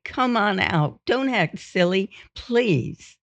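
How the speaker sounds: high, softened nervous pleading; scared wife, imitated. Imitated wife coaxing hidden husband out, nervous pleading. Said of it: "she was always scared".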